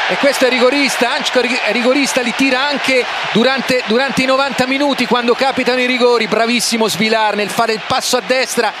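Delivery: excited commentary. Real, not acted. Co-commentator excited after save.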